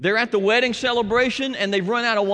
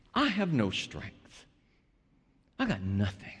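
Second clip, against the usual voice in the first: pleading helpless prayer. Acted. Preacher voicing believer's helpless prayer.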